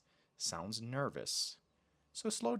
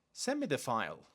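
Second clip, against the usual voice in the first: too direct; faster than usual. Shown as a demonstration. Teacher showing learners a too-direct request, direct. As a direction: direct command with falling end. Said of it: "but too direct".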